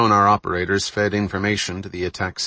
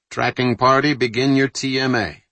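commanding; 5 semitones higher, 3 dB louder than usual. Acted. Captain gives order.

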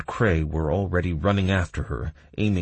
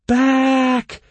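shouted command; 9 dB louder than usual. Acted. Kira calls retreat in battle.

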